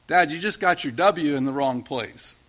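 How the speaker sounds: lightly deadpan, matter-of-fact delivery; dry and succinct. Retold or imitated. Son correcting his dad over a W, dry and succinct. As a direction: say it drily, with little lift. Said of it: "very dryly and very succinctly".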